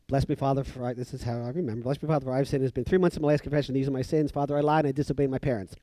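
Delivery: brisk, perfunctory recital; quick confession. Retold or imitated. Kid confessing sins to the priest, quick and to the point. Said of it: "Quick and to the point".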